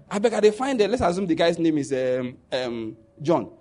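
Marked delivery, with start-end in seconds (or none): 0.1-0.9 Warri Pidgin quote. Retold or imitated. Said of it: "The guy said".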